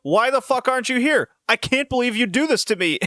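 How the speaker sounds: high whiny complaint; mocking Dan. Fiance complaining to Kate on the phone, high mock whine. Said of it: "he goes".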